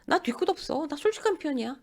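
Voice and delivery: high-pitched mock candour; breezily self-justifying. Rude person claims to be just honest, breezy mock self-defence. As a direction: imitate someone excusing their own bluntness.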